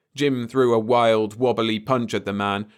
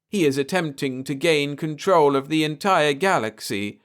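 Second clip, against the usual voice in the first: alien soothing a frightened man; 6 semitones higher than usual. A narrator's reading. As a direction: reassure him gently, an odd alien calm. Alien explains.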